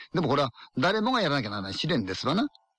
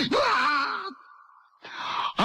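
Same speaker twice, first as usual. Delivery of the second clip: high, long drawn-out eerie wail; sudden ghostly wail; much slower than usual. Acted. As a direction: burst out a drawn-out ghostly howl to startle. Ghost story climax sound burst. (長く引き伸ばした不気味な叫び声)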